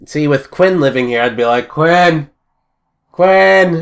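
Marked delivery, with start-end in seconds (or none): 1.7-3.8 raised, higher call, building on the repeat. Acted. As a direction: shout a housemate's name upstairs. Calling housemate from upstairs.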